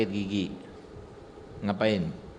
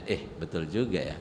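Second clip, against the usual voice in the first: lower, softer, rueful father; a father concedes to his son, lower and sheepish; conceding father; 5 semitones lower, 4 dB quieter than usual. Acted. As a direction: admit it sheepishly like a humbled dad. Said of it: "apa kata ayahnya?".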